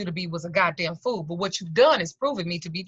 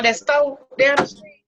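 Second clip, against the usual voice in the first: alarmed question; 5 semitones higher, 4 dB louder, slower than usual. Retold or imitated. The man asks, alarmed.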